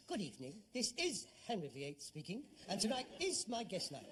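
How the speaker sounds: mock chat-show host opening the show; lightly put-on presenter voice, pitched low at first; Henry the Eighth. Son mocking father's séance, as a royal chat-show host. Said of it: "And then this voice says".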